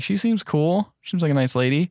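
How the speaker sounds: mildly defending. Retold or imitated. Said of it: "I was like".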